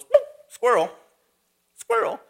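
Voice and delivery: high, loud cartoon-dog yelp; distracted dog. Dog suddenly sees a squirrel running past, high excited outburst. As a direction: blurt it like a dog spotting prey. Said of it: "and the dog goes".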